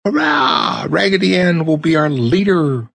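high cheer, voice shifted; cheering dolls. A narrator's reading. Dolls cheer their new leader, high and excited. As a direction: shout hurrah like a crowd of toys.

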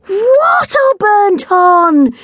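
high, slow alarmed shout. A narrator's reading. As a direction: yell it out together in alarm. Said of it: "shouted several people".

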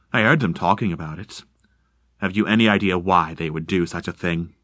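courteous, unhurried explanation; lightly voiced polite stranger.

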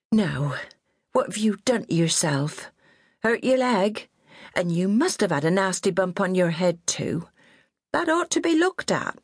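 high, bossy West Country nanny voice; scolding old countrywoman. A narrator's reading. Old nurse scolding her fallen charge, high and bossy. Minnie fusses over injuries.

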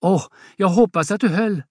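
mild gasping worry; gasping for breath. Acted. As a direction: catch your breath in fright. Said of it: "Åse kippar efter andan".

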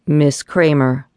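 a man's mildly deep, somber address. Acted. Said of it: "said a deep, somber voice".

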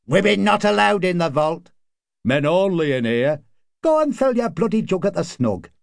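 high-pitched jeers from pub men; mild catcalling. A narrator's reading. Men in the vault tell a woman to leave, mildly jeering.

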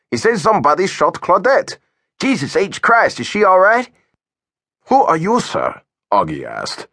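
put-on young officer alarmed about Claudette. A narrator's reading. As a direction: demand answers about Claudette.

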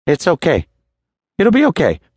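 high-pitched, unsure reassurance; murmured reassurance. A narrator's reading. Charlie trying to calm the narrator, uncertain murmur. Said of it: "To me, he murmured".

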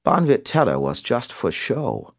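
put-on high, slow European-accented villain; Simon, European accent. A narrator's reading. Caller owns up to earlier attack, European accent. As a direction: toy with them slowly in a European accent. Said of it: "recited in a European accent".

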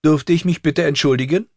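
put-on high girl's voice, stiffly polite; formal, stilted request from a child; stiff recital. A narrator's reading. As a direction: recite courtly manners by rote. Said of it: "rezitierte sie steif".

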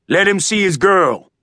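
commanding sergeant. A narrator's reading. Sergeant voice continues.

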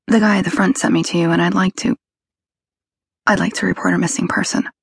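lightly voiced anxious girl, stumbling; nervous young woman voice. A narrator's reading. Kelly voiced, halting.

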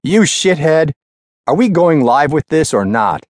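high, loud raging shout; furious yell. Acted. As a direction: scream abuse down the line. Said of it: "So did the level of Gossett's voice".

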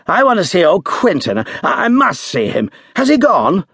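pushing to see his friend, out of breath; breathless and urgent. A narrator's reading. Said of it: "he said breathlessly".

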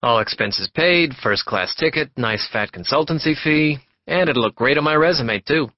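brash, loud, eager talker, words tumbling out; a pushy stranger who won't stop talking; loud chatty salesman. Acted. Passenger chatting up Warren on the monorail, loud and eager.

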